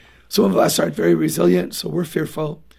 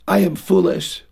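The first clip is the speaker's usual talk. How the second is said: flat self-condemning "I am foolish"; defeated self-label. Shown as a demonstration. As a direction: say it like a child giving up on himself.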